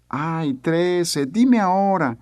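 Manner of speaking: put-on high, pleading kid voice rising into a whine; child begging. Father quoting his son begging to know now, pleading child voice. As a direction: beg like an impatient little kid.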